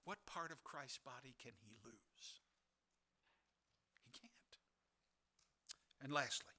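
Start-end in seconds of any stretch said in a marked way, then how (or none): 0.0-4.6 breathy hushed question and answer; whisper. Real, not acted. Preacher whispering to believers, hushed. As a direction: drop to a bare whisper for weight. Sudden whisper after climax.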